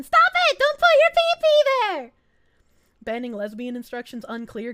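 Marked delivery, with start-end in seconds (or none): 0.0-2.1 high, loud comic shriek; exasperated high-pitched yell; mock scolding. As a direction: tell them off in a panicked squeal. Scolds chat over absurd message.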